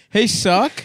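laughing mock call. Mock calling out to Suck.

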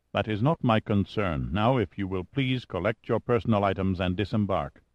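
lightly voiced officer, firm and formal; unyielding pilot. Pilot ordering the scientists off his plane, unyielding. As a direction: dismiss their concerns with cool formality.

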